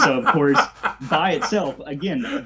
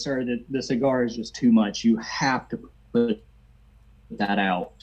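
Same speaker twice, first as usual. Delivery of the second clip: acted plea, slowing on "have to put that out"; insistent demand. Woman to smoking seatmate about his cigar, insistent.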